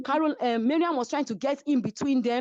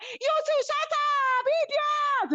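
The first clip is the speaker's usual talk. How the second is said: much higher, squeaky put-down; mock angry retort; much slower than usual. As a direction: fire back like a petty rival. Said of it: "And Karen was like".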